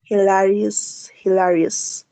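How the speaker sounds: "hilarious" stretched slowly, syllable by syllable; slow pronunciation drill. Shown as a demonstration. Teacher drills "hilarious" slowly for students. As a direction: draw "hilarious" out slowly for the class to copy. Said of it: "Hagan como la pronunciación de la O".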